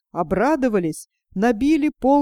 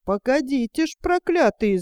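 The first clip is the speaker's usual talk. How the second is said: a touch of fool's fury at the gadflies; mild anger; 3 semitones higher than usual. Acted. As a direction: grumble threateningly at the flies. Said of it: "злится дурень". (лёгкая наигранная злость на оводов)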